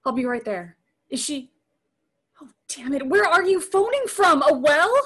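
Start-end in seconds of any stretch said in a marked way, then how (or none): 3.1-5.0 pitched way up and louder, startled; can't believe the answer; shocked disbelief. Acted. Shocked question on the phone.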